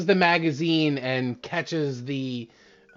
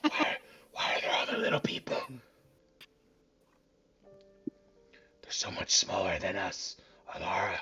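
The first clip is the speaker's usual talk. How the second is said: put-on whimpering drunk; 6 semitones lower, 10 dB quieter, faster than usual.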